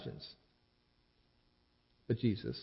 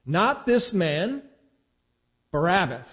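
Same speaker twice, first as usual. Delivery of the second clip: slow, louder shout back; a measured crowd shout, higher; 4 semitones higher, 5 dB louder, slower than usual. A narrator's reading. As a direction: drag out the refusal as a crowd. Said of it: "They shouted back".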